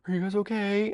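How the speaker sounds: high, sweet concern; mock caring friend checking in. Consoling crying friends.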